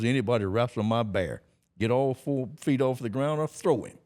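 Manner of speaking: loud barker pitch to the crowd; high, loud sideshow hawker; carnival barker call. Retold or imitated. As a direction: call out the challenge like a showman. Carnival strongman calling to crowd.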